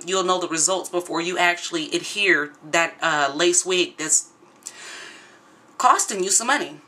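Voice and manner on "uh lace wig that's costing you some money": a little out of breath; talking while short of breath. Real, not acted. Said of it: "I'm short of breath today".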